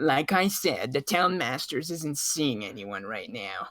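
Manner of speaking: irked, grating, annoyed, dismissive tone. A game master voices a woman repeating herself, in a more annoying tone. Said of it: "more annoying tone".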